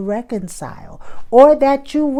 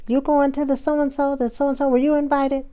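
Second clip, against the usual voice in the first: friend on the phone; 8 semitones higher than usual. Pretend. Friend voiced on phone call.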